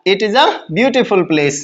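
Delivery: slow, word by word, "it is a beautiful place"; slow dictation. Shown as a demonstration. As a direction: spell out every word slowly like dictation. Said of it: "बोलो क्या बनाया". ("it is a beautiful place" धीरे-धीरे, हर शब्द अलग बोलते हुए)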